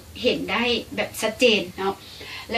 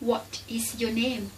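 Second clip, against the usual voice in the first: slow demo; 7 dB quieter, much slower than usual. Shown as a demonstration. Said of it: "แบบนี้".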